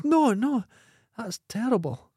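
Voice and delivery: put-on squeaky high little boy, shocked. Joke, little boy answers again.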